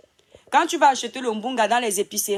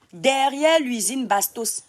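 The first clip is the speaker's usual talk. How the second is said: slow, pointed emphasis so it sinks in; drawn-out insistence; slow and deliberate; slower than usual. Real, not acted. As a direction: spell out each word slowly again. Repeats answer to own question.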